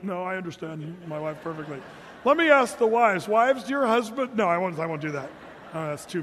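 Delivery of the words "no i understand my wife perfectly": mock smug reply. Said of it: "All the guys are like".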